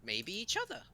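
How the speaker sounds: a tiny king slowly savouring the idea; child king voice. Acted. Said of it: "voice of a small child".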